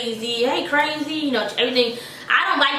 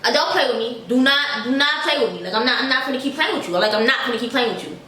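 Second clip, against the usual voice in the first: little angry voice. Retold or imitated. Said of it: "I dead had my little angry voice".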